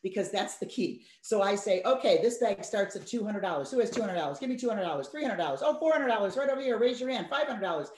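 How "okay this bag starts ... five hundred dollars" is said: mock auctioneer. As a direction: call the bids like a cheerful auctioneer. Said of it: "I love to be an auctioneer".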